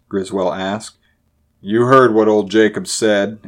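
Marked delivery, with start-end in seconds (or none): 1.6-3.4 louder, firm and mildly grim. A narrator's reading. Buckner reminding Griswell of Jacob's warning, mildly grim. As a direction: answer with understated grimness. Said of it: "answered Buckner grimly".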